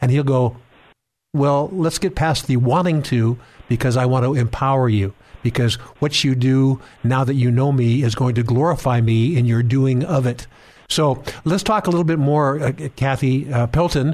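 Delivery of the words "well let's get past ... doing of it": normal talking voice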